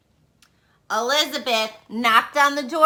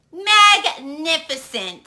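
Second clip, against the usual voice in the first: impressed; 4 semitones higher, 5 dB louder, slower than usual. Acted. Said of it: "said Elizabeth".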